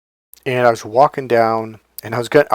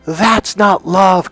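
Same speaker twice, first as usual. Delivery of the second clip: slow, higher-pitched protest; mock reproach, pitched up and stretched; imitating ex-girlfriend's reproach; 7 semitones higher, 4 dB louder, much slower than usual. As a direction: draw out the retold objection. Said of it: "I remember her saying to me".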